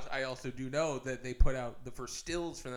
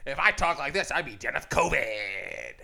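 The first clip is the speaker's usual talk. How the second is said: radio guy voice; 3 dB louder than usual. Acted. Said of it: "I keep doing my radio guy voice".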